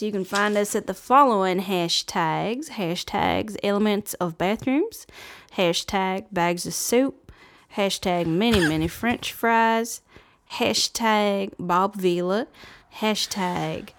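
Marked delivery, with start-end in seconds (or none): 2.7-13.9 slow deadpan. Acted. Slow silly hashtag list.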